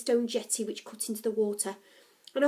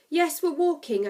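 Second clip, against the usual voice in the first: polite, louder explanation; 5 semitones higher, 5 dB louder than usual. A narrator's reading. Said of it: "I explained politely".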